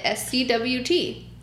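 each letter slow and apart; slow spelled letters. Real, not acted. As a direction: spell it out slowly. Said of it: "No, that's it".

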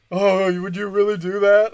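high, loud imitation of a grateful notary; mock grateful notary.

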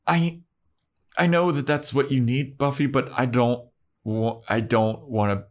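high, hesitant mother voice; the mom stammering an excuse; mock mom. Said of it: "And Buffy's mom is like".

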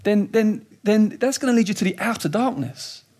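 urgent, rising warning; warning voice of Jesus. Retold or imitated. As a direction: press the danger on them. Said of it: "when Jesus sort of says".

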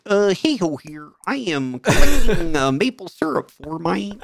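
mock-Canadian sliding into a puppet frog; Kermit. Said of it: "Are you Canadian or Kermit?".

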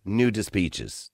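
very slow, dropped low and soft; slow puzzled repeat. Shown as a demonstration. Host slowly repeating caller's garbled words, puzzled. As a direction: draw it out, baffled. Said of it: "I have no understanding".

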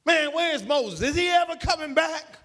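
high-pitched impatient questioning; acting out a restless, complaining crowd. Israelites waiting on Moses at the mountain, impatient. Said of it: "they got impatient".

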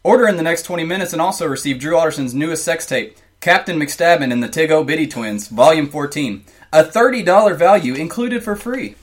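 pitchman voice; home shopping host. Acted. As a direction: sell it like an infomercial. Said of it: "my original script for that infomercial".

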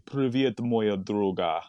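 slow Russian phrase, put-on Russian accent. Shown as a demonstration. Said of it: "you say".

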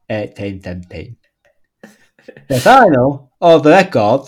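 comic character reading a biography; put-on article voice. Reading a snooker player's wiki page, put-on character voice. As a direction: read the facts out in a silly voice. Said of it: "read an article out in that voice".

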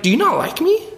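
put-on high, complaining kid voice; jealous kid protesting to Jesus; whiny Simon. Simon complains to Jesus about the small can, high and whiny. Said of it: "I'm like".

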